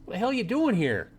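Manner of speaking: high, fast, panicked rant; total freak-out. Pretend. Naked woman freaking out at the android in her shower. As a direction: lose it completely at the intruder. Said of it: "freak out completely and say".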